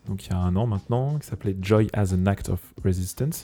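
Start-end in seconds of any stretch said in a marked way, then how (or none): 1.6-3.4 English title in a French accent. Real, not acted. Radio host announcing an English album title, French accent. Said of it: "J'adore prendre un accent français".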